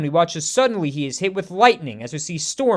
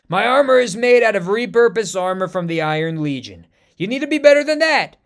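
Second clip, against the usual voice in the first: lightly voiced cocky villain, louder; gloating villain; 3 semitones higher, 5 dB louder than usual. American Panther taunting M'Baku, mildly gloating. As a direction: taunt the beaten warrior. Villain mocking beaten foe.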